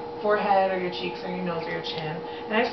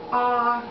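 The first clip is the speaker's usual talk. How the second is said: saying ahh; 2 semitones higher, 5 dB louder than usual. Shown as a demonstration. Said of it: "I just want you to go".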